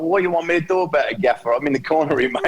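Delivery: a mock whinge, tossed back fast; moaning backroom guy. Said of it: "sitting in the corner going".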